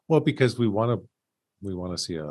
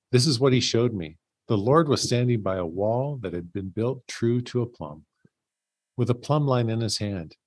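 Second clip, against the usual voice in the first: scripture reading; 2 semitones higher than usual. Acted. Reading Amos aloud to the study group, measured scripture voice. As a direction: read the prophet's vision steadily. Reads the next verses aloud.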